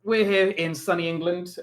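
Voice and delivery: mock-cheery show intro; sarcastic. Real, not acted. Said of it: "I say that sarcastically".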